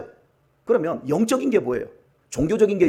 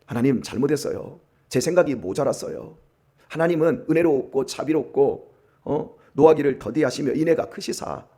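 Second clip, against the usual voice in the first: contrite prayer; 3 semitones lower than usual. Acted. Acted repentant prayer Jonah should make. (요나가 뉘우치듯 낮고 조용하게 용서를 비는 말투)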